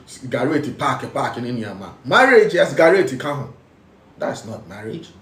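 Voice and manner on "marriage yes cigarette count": mocking shout. Real, not acted. Mocking schnapps-and-cigarette custom.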